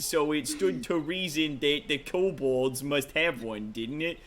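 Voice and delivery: put-on lightly done rough-edged sailor type, Brooklyn-ish accent; rough adventurer NPC. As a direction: read it as a cocky old rogue telling a tale. Rough NPC tells the heist.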